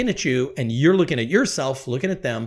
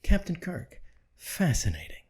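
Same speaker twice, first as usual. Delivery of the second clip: deadpan Spock; 3 semitones higher, 7 dB quieter than usual. Retold or imitated. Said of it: "he'd look at Kirk and he'd say".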